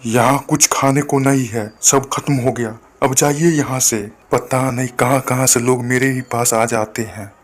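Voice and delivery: lightly voiced dismissive shopkeeper; a hint of an impatient seller shooing someone off; rude shopkeeper. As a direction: shopkeeper brushing off the hungry sadhu. Rival shopkeeper shoos sadhu.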